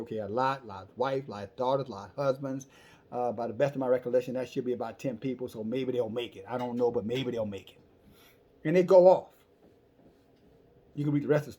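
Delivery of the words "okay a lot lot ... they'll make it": muttered counting. Acted. Abraham counts the righteous to himself.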